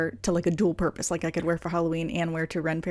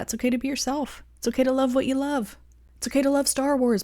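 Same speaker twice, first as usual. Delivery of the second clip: encouraging self-talk; 5 semitones higher than usual. Pretend. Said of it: "Telling myself that".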